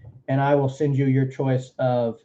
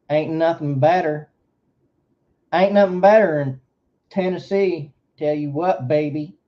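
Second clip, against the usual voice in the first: put-on southern accent; 3 semitones higher than usual. Streamer hams up a Southern accent for chat. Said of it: "coming from a southern accent like this".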